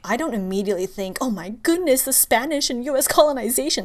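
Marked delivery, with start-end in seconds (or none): 1.2-3.8 higher and louder, in overblown shock; mock dramatic gasp. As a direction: play up the shock as if it were the first thing on your mind. Mock reaction to colonization news.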